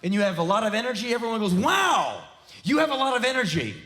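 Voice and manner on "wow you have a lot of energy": patronizing praise. Retold or imitated. Condescending remark quoted.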